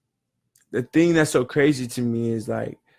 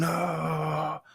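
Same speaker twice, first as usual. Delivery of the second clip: struggling underwater; 5 semitones higher, 8 dB quieter than usual. Retold or imitated. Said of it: "The kid's struggling".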